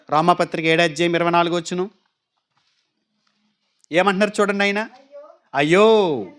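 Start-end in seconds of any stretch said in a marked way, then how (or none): 5.5-6.3 low, drawn-out anguished ayyo; అయ్యో as a lament, not a casual ayyo; wailing ayyo. Shown as a demonstration. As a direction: groan the word అయ్యో like a lament. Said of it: "అయ్యో కాదు, అయ్యో".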